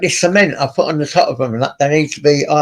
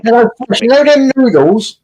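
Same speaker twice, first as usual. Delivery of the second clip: excited call; 7 semitones higher, 5 dB louder than usual. Real, not acted. Calling out excitedly.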